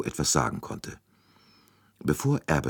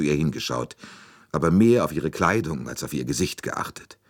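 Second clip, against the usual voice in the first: defensive governess; 3 semitones higher, 3 dB louder than usual. Acted. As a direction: justify yourself with lively emphasis. (sich rechtfertigende Frauenstimme)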